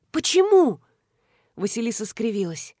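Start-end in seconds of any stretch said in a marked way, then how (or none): 0.1-0.8 high, loud startled why; loud shocked question. Acted. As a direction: jolt of disbelief.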